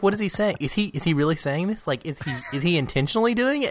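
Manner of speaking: high-pitched incredulous questioning, re-enacted; retold disbelief. Reliving the Mouth translating scene, high and incredulous. Recalls disbelieving reaction while watching.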